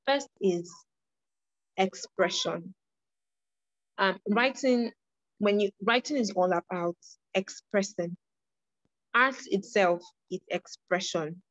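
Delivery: slow, spaced-out lecturing; slow down for the listeners, pausing between phrases. Real, not acted. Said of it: "try to speak more slowly".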